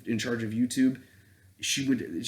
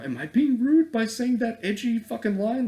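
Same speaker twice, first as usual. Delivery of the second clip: mocking high voice; 13 semitones higher, 6 dB louder than usual.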